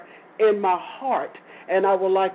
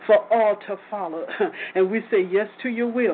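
prayer. Acted. Prayer settling into thanksgiving.

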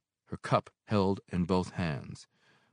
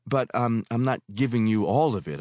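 hastily; 5 semitones higher, 8 dB louder than usual. Acted. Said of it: "I said hastily".

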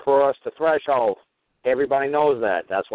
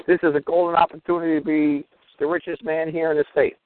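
gleeful aside; 4 semitones higher than usual. Retold or imitated. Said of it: "I was saying to myself".

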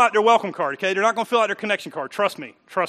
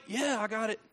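mock dismissive visitor; 12 dB quieter than usual. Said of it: "I'm just playing".

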